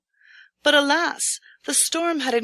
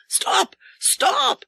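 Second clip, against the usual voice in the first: much higher, louder call to stop; 12 semitones higher, 4 dB louder than usual. A narrator's reading. Husband calls the lost traveler back, loud high cry. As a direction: shout after him across the storm. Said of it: "the cries grew nearer".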